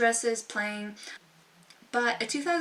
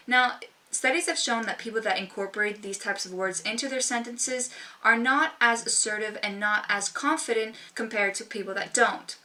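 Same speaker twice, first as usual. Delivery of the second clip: ordinary talk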